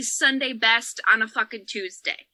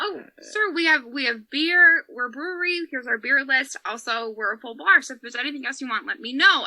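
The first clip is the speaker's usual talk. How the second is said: holding back tears. Retold or imitated. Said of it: "I'm literally holding back tears".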